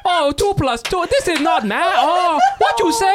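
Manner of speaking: mock Asian accent. Tutor answering students who say it isn't fair, in a loud mock Asian accent. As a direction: ham up a boastful Asian caricature, slowing on the taunts. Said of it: "I would be like".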